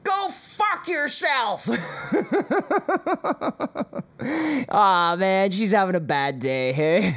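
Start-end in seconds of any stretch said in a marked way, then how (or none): 0.0-4.1 high, slow, laughing parody; laughing imitation. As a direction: giggle through a mock screech. Laughing imitation of clip Karen.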